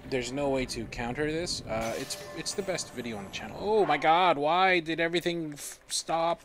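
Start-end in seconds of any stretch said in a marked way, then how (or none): 3.6-6.4 sudden loud, higher alarmed outburst; shocked that everything froze; startled outcry. Real, not acted. Streamer yelling as the game suddenly stops, startled outcry.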